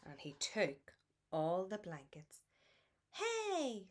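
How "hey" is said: sudden high yelp of surprise; jolted awake, cry out; startled hey. A narrator's reading. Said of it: "said Lulu, waking up with a start".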